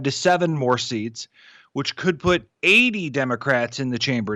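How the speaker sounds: measured commentary read from the page; scripted political column delivery; newsletter read-aloud. Real, not acted. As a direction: read your written column aloud with pointed emphasis. Reads own newsletter aloud.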